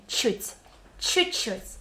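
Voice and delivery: "Чуть" alone, then Чуть-чуть in full; built up step by step. Shown as a demonstration. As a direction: add the second чуть after the first. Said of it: "And then continue".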